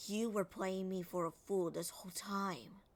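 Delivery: "time" falls as a statement, no question rise; falling statement tune. Shown as a demonstration. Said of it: "since it doesn't end on a question".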